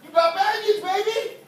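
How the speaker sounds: high, loud, slow chant; shouted refrain. Acted. Preacher chants the refrain at the congregation, high and loud. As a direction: call it out to the room.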